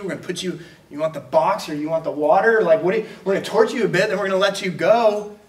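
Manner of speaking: sermon voicing Rome's guards, amused and mocking; mocking Roman guards. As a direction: tease him with torture through laughter. Roman guards mocking Paul's threat.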